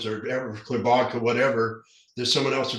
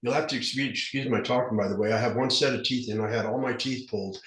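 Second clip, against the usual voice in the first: lisping with dentures; 4 dB louder than usual. Real, not acted. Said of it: "I'm kinda lisping".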